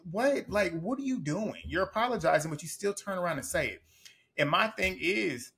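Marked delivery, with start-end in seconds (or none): 0.1-3.8 higher-pitched, imitated baffled reaction; mock disbelief. Recapping a castmate's reaction to a false apology, mock disbelief. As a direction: act out an incredulous "what are you doing".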